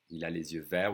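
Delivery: verts ending on the R, "vair"; silent T and S. Shown as a demonstration. Teacher showing which letters are silent, silent T and S. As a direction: say verts without T or S. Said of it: "We don't hear the T and the S".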